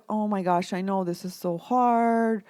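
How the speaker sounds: meet her where she is with a touch of sympathy; supportive friend. Retold or imitated. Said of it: "You would say".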